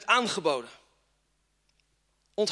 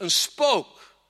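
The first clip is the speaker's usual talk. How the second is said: mock frightened cry; 3 semitones lower, slower than usual. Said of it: "Ze riepen".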